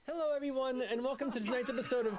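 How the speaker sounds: bright host welcome; announcer intro. Acted. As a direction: open the show like a host. Host opens show in costume.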